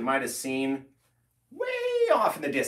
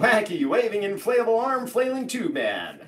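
excited announcer; 6 semitones higher than usual. Acted. Repeating the tube man catchphrase.

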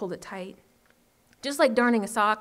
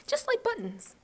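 delighted; 13 semitones higher than usual. Acted. Girl delighted with her handiwork.

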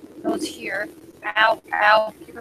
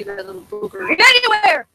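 excited; 10 semitones higher, 6 dB louder than usual. Real, not acted. Relieved after escape.

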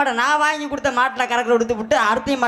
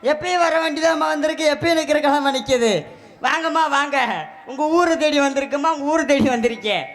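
raised singsong vendor calls; singsong street hawker; 3 semitones higher than usual. Acted. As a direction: call customers in like a hawker. Calls customers as milk seller.

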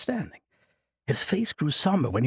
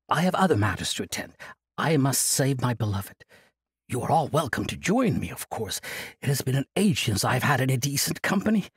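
put-on jovial old monk. Old monk cheerfully refusing Kasai's plea, jovial. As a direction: laugh off the burden like a merry elder.

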